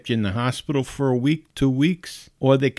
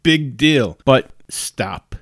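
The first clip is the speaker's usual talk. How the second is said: louder, punchy "Big deal"; emphatic; 6 dB louder, much slower than usual. Real, not acted. Host dismissing weight gain worries: emphatic. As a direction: brush off the excuse, then insist.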